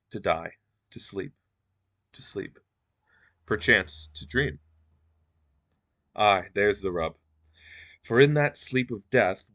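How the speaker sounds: measured dramatic reading with deliberate pauses; sight-read monologue. Acted. Lecturer sight reading Hamlet's monologue to find meaning, measured recitation. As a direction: feel out the meaning phrase by phrase, lightly acted. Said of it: "sight reading a little bit, trying to patch some meaning in there".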